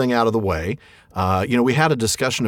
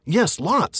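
higher, blurted hobbit reply; blurting Bilbo; 8 semitones higher than usual. Acted. Bilbo answering the troll too quickly, a higher blurted reply. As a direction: blurt it before thinking. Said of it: "said Bilbo".

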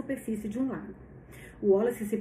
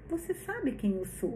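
through a wall; 5 dB quieter than usual. Acted. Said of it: "com a voz abafada".

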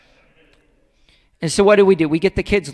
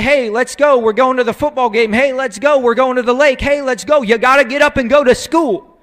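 louder, insistent calling out; parent rousing kids; 3 semitones higher, 6 dB louder than usual. Acted. Parent hurrying kids out the door, insistent call. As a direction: hustle the kids along.

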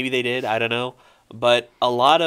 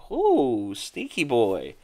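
playful reaction; 3 dB quieter, much slower than usual. Retold or imitated. Gamer reacting to being sniped by a friend, playfully impressed. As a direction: savour it slowly, dropping in pitch. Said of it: "and I'm just like".

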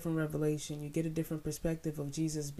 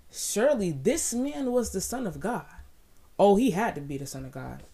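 higher, louder awed cry; rising exclamation; 4 semitones higher, 7 dB louder than usual. Real, not acted.

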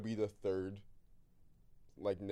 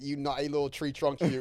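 loud jokey Australian flirt; playful imitation of an Australian sweet-talker; mock Australian; 4 semitones higher, 7 dB louder than usual. Host mocking Australian pet names, loud put-on Australian. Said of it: "Australian niggas say the wildest shit".

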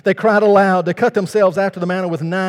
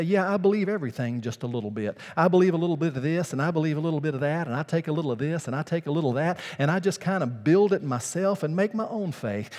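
fast, breezy, rising lines; a lightly voiced casual believer; pick-and-choose believer; 3 dB quieter, faster than usual. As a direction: toss it off lightly like a casual skeptic.

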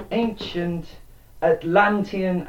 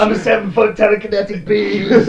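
loud, high mock-heroic boast; boastful superbeing; 7 semitones higher, 9 dB louder than usual. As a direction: brag like a cartoon god.

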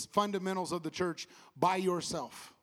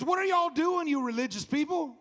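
rebuking Jesus; 7 semitones higher than usual. Acted.

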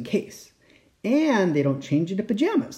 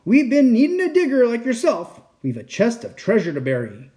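pirate captain voice; 5 semitones higher than usual. Acted. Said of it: "he said".

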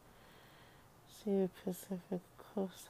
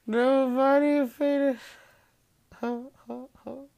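mock protest; 7 semitones higher, 7 dB louder than usual. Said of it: "and you're like".

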